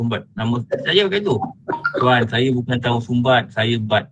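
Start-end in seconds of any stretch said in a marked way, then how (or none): 2.0-4.0 polite, level correction; composed Sayyidina Umar manner. Acted. Man politely corrects a name-caller, composed. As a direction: answer the nickname calmly and respectfully. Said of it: "ini sudah watak Sayyidina Umar".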